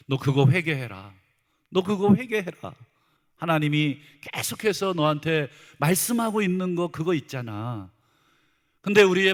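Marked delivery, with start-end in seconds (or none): 0.1-7.9 insistent nudge to the conscience; acted pointed rebuke. The Spirit pointing out sin to a believer, acted mild rebuke. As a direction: press the point home, mildly stern. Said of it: "죄를 계속 지적".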